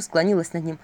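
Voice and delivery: ordinary delivery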